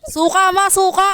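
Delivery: calling out. Real, not acted. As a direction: call it across the room. Calling out to mom. (malakas na pagtawag)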